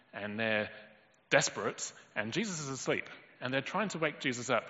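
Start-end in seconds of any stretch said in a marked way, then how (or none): none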